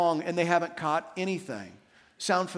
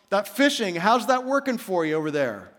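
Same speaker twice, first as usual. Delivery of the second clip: calling out a dry teasing question from the shore; knowing tease. Acted. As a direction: tease them gently, already knowing. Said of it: "Jesus already knows the answer".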